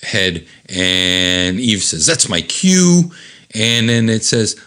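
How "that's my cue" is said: higher, drawn-out character voice; stretched comic heroine line; Eve's cue line. Acted. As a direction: announce your entrance, high and slow. Voices Eve entering the fight.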